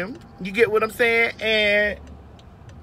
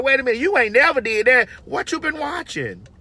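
husband's shocked reaction; 5 semitones higher than usual. Retold or imitated. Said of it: "that man eyes probably gonna be like".

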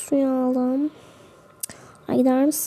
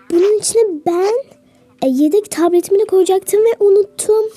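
upset wail; 6 semitones higher, 5 dB louder than usual. Real, not acted. Upset about forgotten tablet.

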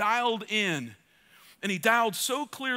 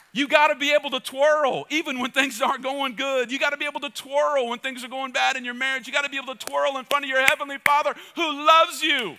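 louder and higher; fervent preaching; 3 semitones higher, 4 dB louder than usual. Acted. Preacher exhorting the congregation, fervent. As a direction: drive each line home.

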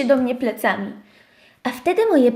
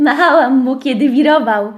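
ze śmiechem; 3 dB louder than usual. Real, not acted. Śmiech narratorki.

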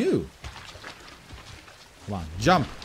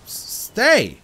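louder, higher stern commands; firm commands; 4 semitones higher, 7 dB louder than usual. Real, not acted. Player scolding the creature to stay, firm loud commands. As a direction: stop him like a misbehaving dog.

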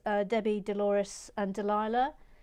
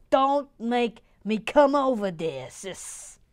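mock threat; 6 dB louder, slower than usual.

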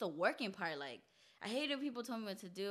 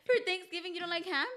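surprised; 10 semitones higher, 7 dB louder than usual. Real, not acted. Incredulous question about ham.

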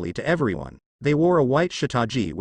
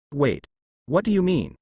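pleading; 3 semitones higher than usual. A narrator's reading. Naruto begs vanishing Ichigo for meaning, mildly pleading. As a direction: plead a little, lifting the pitch on the question. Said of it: "he asked pleadingly".

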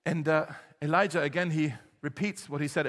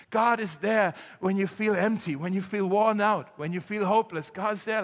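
preaching. Acted. Preaching with force.

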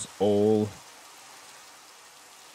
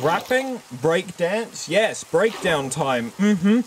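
own brain talking; 5 semitones higher, slower than usual. Acted. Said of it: "my brain was like".

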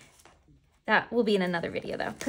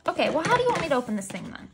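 exasperated; 5 semitones higher, 4 dB louder, much faster than usual. Real, not acted. Exasperated at the packaging.

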